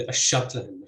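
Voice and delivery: أشرتلهن stressed on the heavy syllable after the glottal-stop opening. Shown as a demonstration. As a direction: hit the heavy syllable following the first in أشرتلهن. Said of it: "So you'd have stress on".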